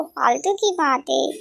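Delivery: teasing repeat of her words; mocking echo. Friend teasing the girl, mocking echo. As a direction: parrot her back, mock tone. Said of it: "ओहो".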